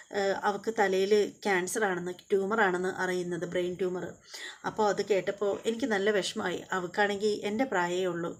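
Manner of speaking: mother tells her daughter of a friend's tumour, mildly tearful; mild retold crying. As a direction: voice drops as if holding back tears, understated. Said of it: "എന്നിങ്ങനെ പറഞ്ഞിട്ട് കരയുകയാണ്".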